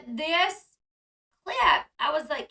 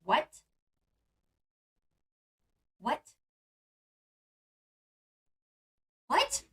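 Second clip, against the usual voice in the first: disbelieving what; much slower than usual. Retold or imitated. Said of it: "And I'm like".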